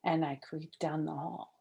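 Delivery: quiet sneaky whisper. A narrator's reading. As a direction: tiptoe with your voice. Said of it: "very quiet".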